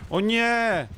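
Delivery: high, loud wail of dismay; high-pitched loud "oh no"; dismayed cry. Real, not acted. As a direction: cry out as the plan goes wrong. Player caught by the killer.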